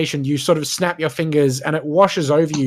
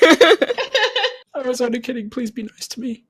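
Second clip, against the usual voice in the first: mock pleading; 8 semitones higher, slower than usual. Mock pleading after sounding mean.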